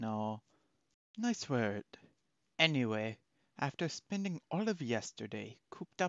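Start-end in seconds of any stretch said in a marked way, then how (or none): 3.6-6.1 stately, regal, wizard-like delivery. Trying out voices for a game character's line, in a regal, magey voice. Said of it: "regal, magey".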